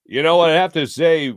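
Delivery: a hint of an old announcer savoring the words; Harry Kalas. Imitating the broadcaster's voice for the nervous young TV worker, lightly. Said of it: "in Harry Kalas's voice".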